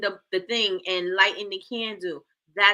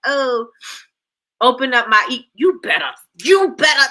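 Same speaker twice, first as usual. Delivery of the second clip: excited shout; 3 semitones higher, 9 dB louder than usual. Real, not acted. Hyped reaction to chat answer.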